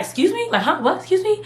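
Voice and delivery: high, stunned "excuse me?"; shocked disbelief. Retold or imitated. Fired over the phone, stunned high disbelief. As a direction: squeak out your disbelief. Stunned reaction on firing call.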